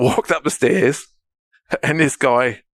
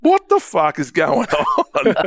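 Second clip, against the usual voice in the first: slow, laughing disbelief; bewildered; 5 semitones higher, much slower than usual. Retold or imitated. Rattled by a second stranger, slow and laughing. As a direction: spell out the confusion. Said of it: "And I'm like".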